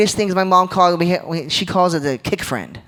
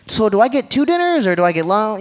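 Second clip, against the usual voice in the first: lightly voiced child, higher and puzzled; confused kid; 5 semitones higher, 3 dB louder than usual. Little boy asking mom about meals, mildly confused. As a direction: play your younger self, mildly bewildered. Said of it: "I was like".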